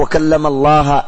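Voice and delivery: "وكلم الله" read with الله ending in a fatha, as alːaha; slow, mock quote of the distorted reading "وكلم الله" with an -a ending on الله. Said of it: "قالوا".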